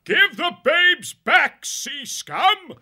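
loud, high, drawn-out battle shout; thunderous demand. A narrator's reading. Badger warrior demands captive babes from sea rat, thundering. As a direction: thunder each word at the enemy. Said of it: "The badger's voice was like thunder".

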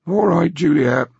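put-on slow, high-pitched old man settling down; calmer voice. A narrator's reading. Grandfather reassuring his upset granddaughter, calmer high voice. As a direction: relent slowly in a high voice. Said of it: "her grandfather said in a calmer voice".

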